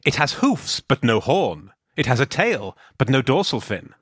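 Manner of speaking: riddle-setter's measured lines, each ending on a punch; posing a riddle. Pretend. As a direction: set a riddle in short teasing phrases. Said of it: "you could set him the odd riddle".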